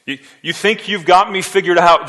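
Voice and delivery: forceful rebuke. Acted. Preacher voicing Jesus' rebuke.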